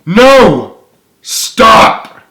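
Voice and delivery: sudden high yell to stop him; desperate shout. Acted. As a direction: cry out no, stop. Character cries out to stop.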